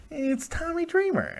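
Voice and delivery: soft, slow, unimpressed "Tommy Dreamer"; with disdain. Shown as a demonstration. Host shrugging off the wrestler to the caller, with disdain. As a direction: drag out "Tommy Dreamer" quietly, bored. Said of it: "You could say it with disdain".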